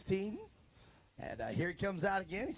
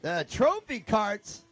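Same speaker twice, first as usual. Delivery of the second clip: play-by-play; 4 semitones higher, 6 dB louder, slower than usual. Acted. Live race call.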